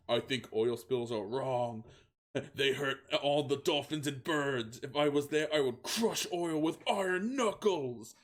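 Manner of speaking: fiery justice. Acted. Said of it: "with fiery justice".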